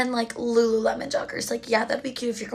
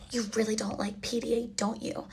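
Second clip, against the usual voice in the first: hushed; 5 dB quieter than usual. Retold or imitated. Retells the date's teasing.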